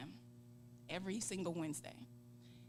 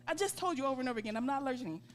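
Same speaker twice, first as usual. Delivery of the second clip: fast, louder, exasperated retelling; exasperated patient snapping at a nurse; getting mad; 7 semitones higher, 10 dB louder, faster than usual. Retold or imitated. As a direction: rattle it off fed up with repeat questions. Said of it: "And now I'm getting mad".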